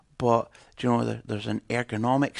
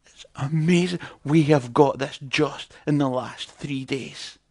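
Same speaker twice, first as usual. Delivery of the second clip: a hint of an American miner bragging; mild mock-American delight; excited American miner. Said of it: "they have funny accents".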